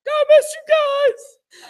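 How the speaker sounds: loud, very high, drawn-out wail; mock crying. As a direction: bawl it like a baby, hammed up. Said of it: "I'm just crying, crying".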